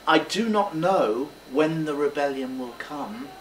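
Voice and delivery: sincere, measured admission; honest, sharing. Shown as a demonstration. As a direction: confide it frankly to inspire them. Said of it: "You're being very honest".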